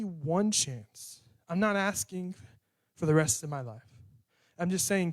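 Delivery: earnest spoken prayer, pressing God; heartfelt prayer. Acted. Preacher praying aloud to God before the congregation, earnest prayer. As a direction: plead openly, voice lifting on the asks.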